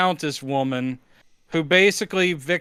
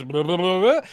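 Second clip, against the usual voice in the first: lightly imitated parroting creature; creature parroting back. The creature repeating the countess, a hint of mindless parroting. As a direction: echo the babble back with less lift. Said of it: "the creature just parrots back".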